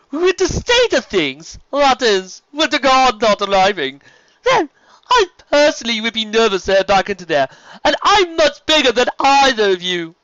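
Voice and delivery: high, loud, flamboyant serpent voice; sea serpent Stephen. Acted. Sea serpent inviting the sister along, grand and high.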